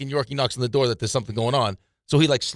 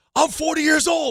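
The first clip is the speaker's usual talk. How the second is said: put-on screaming voice, higher pitched. Retelling how a security guard screamed at the players: imitating a screaming security guard. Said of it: "he starts screaming at us".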